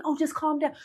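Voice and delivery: high, laughing brush-off; mocking calm down. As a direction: tease it with a laugh. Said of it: "them saying".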